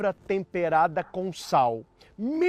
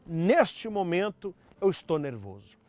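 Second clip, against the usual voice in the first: calm admission. Shown as a demonstration. Upset spouse admits it to the partner, calmly. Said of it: "se você está nervoso, diga".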